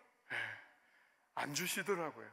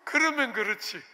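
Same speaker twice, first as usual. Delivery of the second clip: louder, aggrieved outburst; retold sour I-knew-it reaction; cynical grumble; 4 semitones higher, 7 dB louder than usual. Pastor grumbling at God after losing the car, cynical. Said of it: "또 삐딱하게".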